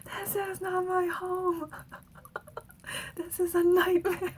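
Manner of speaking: put-on whiny little-kid insistence; imitating child self. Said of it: "And I'd be like".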